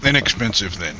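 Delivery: Inexpensive said firmly with a falling tune; stress on Inexpensive. Shown as a demonstration. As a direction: lean on the word Inexpensive. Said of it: "cheap is a negative connotation".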